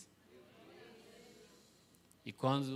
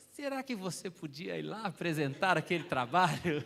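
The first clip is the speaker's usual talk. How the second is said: the principal's polite request, louder and higher; preacher imitating the principal asking his son, louder; voiced principal; 4 semitones higher, 7 dB louder than usual.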